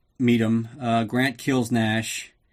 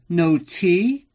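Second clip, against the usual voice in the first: higher, louder whiny put-on voice; hammed-up pouty girlfriend; mock dismayed Tanya; 6 semitones higher, 6 dB louder than usual. Narrator mocking Tanya missing her tea, whiny put-on voice.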